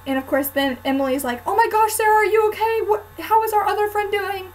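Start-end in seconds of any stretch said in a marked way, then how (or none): 1.5-4.5 higher and louder, a lightly voiced worried friend; imitating a worried friend. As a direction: quote the friend's alarm with a touch of mock worry.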